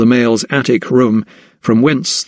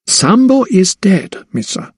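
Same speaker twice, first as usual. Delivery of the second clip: trembling sadness; 8 semitones higher than usual. A narrator's reading. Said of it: "full lips trembled".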